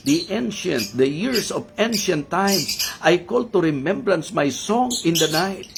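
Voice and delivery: measured, emphatic Bible reading; scripture reading. Acted. Preacher reading the psalm to the congregation, solemn scripture reading.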